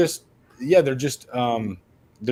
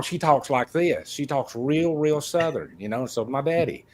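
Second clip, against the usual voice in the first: lightly put-on Mississippi Southern accent. Imitating mom's real Southern talk from Mississippi, light Southern accent. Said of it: "do a whole episode in that accent".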